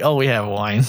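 just own up to it bluntly; blunt admission. Retold or imitated. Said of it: "Or you could be straight up just be like".

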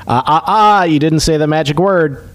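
lightly imitated taunting tech guy; a hint of a teasing singsong scold; Dennis Nedry. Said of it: "Dennis Nedry from, uh, Jurassic Park going".

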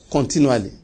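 "continually" set apart on its own, falling; stress on continually. Real, not acted. Preacher emphasizing one Bible word, "continually" measured and falling. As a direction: say "continually" as a separate, measured point. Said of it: "I want to emphasize that word".

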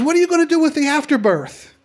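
high-pitched imitation of a prying hippie; put-on hippie voice, high and insistent; hippie character. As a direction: ask it like an eager hippie, voice way up. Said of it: "He says".

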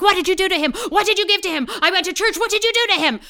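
high-pitched imitation of an accusing mom; alarmed mother. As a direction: grill them like a frantic mother. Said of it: "And my mother's like".

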